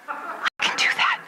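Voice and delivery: high, slow, airy little squeak; eager squeak. Acted. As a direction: squeak it slowly like a secret brainwave. Repeats the thought, squeaky and eager.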